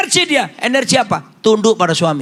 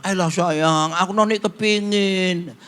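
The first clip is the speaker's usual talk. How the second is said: coaxing wife; 3 dB quieter, slower than usual. Retold or imitated. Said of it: "dia bilang".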